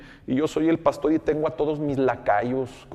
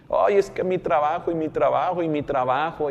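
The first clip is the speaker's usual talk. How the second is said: mocking whine; 3 semitones higher than usual. Pastor mocks church members excusing themselves, whiny parody. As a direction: parody the lazy believer's complaint.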